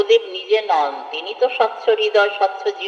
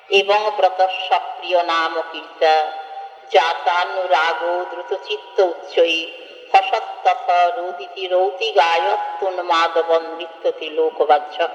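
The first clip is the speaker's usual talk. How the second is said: scripture recitation. Acted. Reciting Sanskrit scripture verse.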